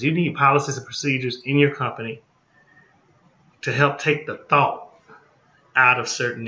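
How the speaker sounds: fast and blunt, no dressing it up; just say it like it is, quickly; blunt, straight talk. Shown as a demonstration. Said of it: "just say it like it is".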